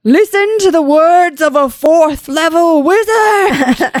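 high, slow, hammed-up wizard proclamation; grand shout. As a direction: proclaim it loudly like a self-declared wizard. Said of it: "Brian shouted".

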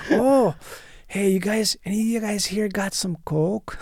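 a lightly voiced out-of-work welder from Wisconsin.

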